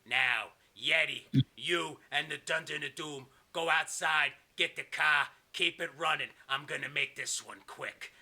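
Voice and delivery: lightly voiced villain boss, slow and deliberate; mock threat turning into measured orders; a touch of menace; Kevin Sullivan. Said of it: "and he goes".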